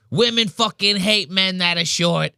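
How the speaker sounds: high-pitched mock outrage; imitated angry rant. Impersonating the pizzeria guy from a viral video, high angry rant. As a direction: mimic an aggrieved little guy ranting. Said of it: "he sounds like that five-foot-two pizza".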